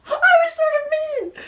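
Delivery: high, laughing admission; laughing confession. Real, not acted. Mother admitting to viewers she was mean, laughing. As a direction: laugh it out sheepishly.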